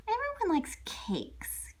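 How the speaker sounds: soft unvoiced aside; whisper. Wolf confiding to listener, whispered. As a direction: whisper it like a secret.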